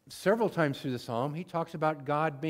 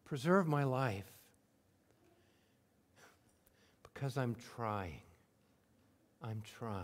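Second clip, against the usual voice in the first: plain sincere; 4 semitones lower, 5 dB quieter than usual. Shown as a demonstration. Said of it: "this is the way I would say it".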